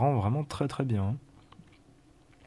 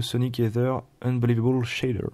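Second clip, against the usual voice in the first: lightly English accent on the name. Shown as a demonstration. Vlogger proudly naming the shader, mild English accent. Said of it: "Mate mon accent".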